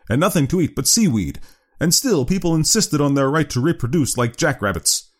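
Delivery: high, emphatic lecturing doctor; severe doctor. Acted. Doctor warning father about overcrowding, severe high lecture.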